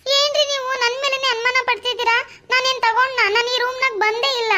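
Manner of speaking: how dare you suspect me; offended protest. Acted. Wife offended at husband's suspicion, indignant.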